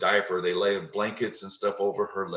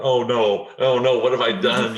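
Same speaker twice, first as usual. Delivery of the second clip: panicked; 3 semitones higher, 9 dB louder than usual. Retold or imitated. Panicked inner thought, feared harm.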